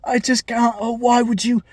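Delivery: hammed-up heartbroken wailing, a mock cry on oh no; mock anguished lament. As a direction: whine it like a betrayed, crushed boyfriend. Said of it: "He's just like".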